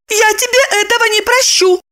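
high, threatening little sister. A narrator's reading. Sister threatens brother over the phone, high and sulky. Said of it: "пригрозила".

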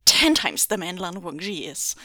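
loud furious boast; angry captor boasting loudly. Acted. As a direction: jab the words out. Shu yells, pointing furiously.

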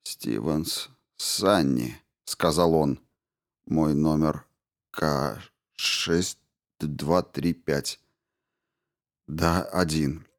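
low, soft and drowsy, words dragged slowly; a half-conscious man barely getting the words out; semi-conscious mumble. A narrator's reading. Injured Stevens, half-conscious, slurring his greeting softly. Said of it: "в полубессознательном состоянии".

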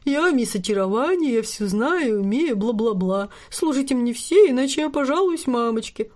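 put-on whiny spoiled girl, squeaky; mock her like a pouty princess; breathy cutesy giggly. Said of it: "состроил капризную гримасу".

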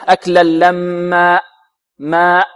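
slow chanted أكلا لما, open long final a; stop without hamza. Shown as a demonstration. Teacher shows students the stop, open-ended alif in لما. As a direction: let the end of لما fade open, no glottal catch. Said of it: "ونحذر من الوقوف عليها بهمزة".

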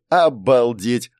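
slow, drawn-out wonder; amazed. A narrator's reading. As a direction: stretch it in disbelief. Second amazed exclamation.

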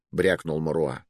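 plain reading voice

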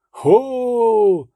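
hailing shout from ahead; calling out. A narrator's reading. A rider up ahead hails them with a shout. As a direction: call out into the dark. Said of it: "закричав хтось попереду".

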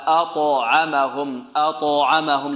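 أطعمهم slowly, with a heavy ط that bounces; clear qalqalah. Shown as a demonstration. Teacher modelling recitation, أطعمهم with a distinct bounce on ط. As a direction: echo the ط in أطعمهم before moving on. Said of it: "لابد أن نأتي بالقلقلة واضحة".

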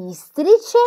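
"istrice" with its first i held long; teacher stretching the i that starts "istrice"; drawn-out first letter. Acted. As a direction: linger on the opening i of "istrice". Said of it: "questa lettera al principio".

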